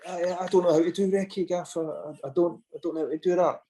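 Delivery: mock flustered, stumbling excuse; flustered stammer. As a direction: imitate someone caught out, tripping over the first word. Retold flustered masseur answering the manager.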